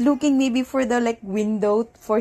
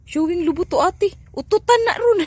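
loud, rising, high words into cackles; high, amused outburst ending in long laughter; breaking into laughter; 8 semitones higher, 7 dB louder, much faster than usual. Real, not acted. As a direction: tease and crack up. Teasing, then cracking up.

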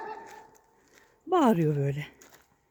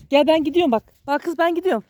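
calling the dog; 5 semitones higher, 4 dB louder than usual. Real, not acted. Warning the dog he is leaving.

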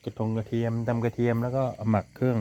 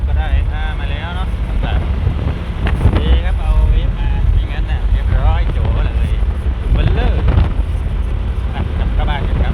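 loud, higher call across the yard; calling out to family outside, raised voice; 6 semitones higher, 11 dB louder than usual. Real, not acted.

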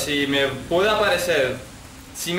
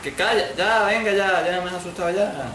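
higher, yelling back at the game; annoyed shout; 4 semitones higher than usual. Real, not acted. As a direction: tell her to shut up, rattled. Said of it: "deja de gritar, tía". (gritando molesto al juego)

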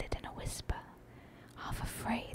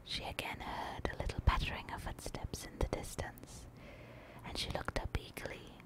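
whispered audiobook narration, unhurried and hushed; bedtime-story whisper; whispered story reading. A narrator's reading. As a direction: read the tale aloud entirely in a whisper.

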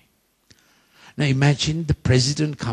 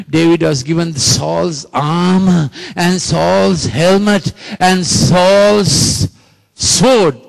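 building preacher emphasis; 3 semitones higher, 5 dB louder, slower than usual. Acted. Building emphasis on armor list.

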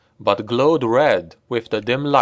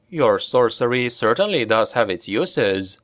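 usual speaking voice

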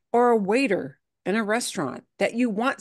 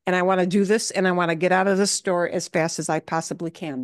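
brusque customer; 2 semitones lower, faster than usual. Retold or imitated. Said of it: "you're cutting right to the chase".

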